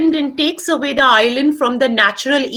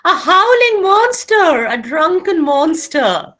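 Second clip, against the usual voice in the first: slow mocking Trinculo; 4 semitones higher, slower than usual. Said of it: "so I'll become a Trinculo".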